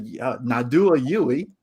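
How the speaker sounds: slow imitation of an Aussie satnav; stereotypical Australian GPS voice. Rental car GPS telling the driver to turn, mock Australian accent. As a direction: imitate an exaggerated Australian direction voice, drawn out. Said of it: "it was the most stereotypical".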